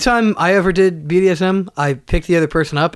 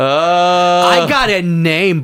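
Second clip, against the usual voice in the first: very slow folk crooner voice; impression of a folk singer; much slower than usual. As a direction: drawl it like a folk singer. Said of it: "I'm Jim Croce".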